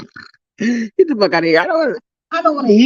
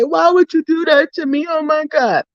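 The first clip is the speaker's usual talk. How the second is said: higher, hammed-up fake sob; mock crying; 6 semitones higher than usual. Vlogger mocks trolls with a pretend tearful wail. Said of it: "maybe you'll see me cry".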